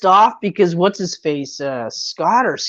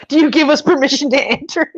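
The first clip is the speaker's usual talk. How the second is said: formal vampire request; 4 semitones higher than usual. Retold or imitated. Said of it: "It's like".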